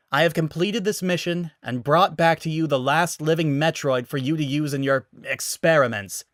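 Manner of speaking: controlled, rising to a shout; forced calm to shout. Acted. Samus declaring her mission to the guard. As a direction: hold it in, then let it burst out. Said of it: "had shouted the last sentence".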